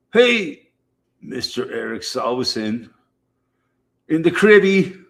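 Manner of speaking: loud, high shout-out to a viewer; calling out a greeting. Real, not acted.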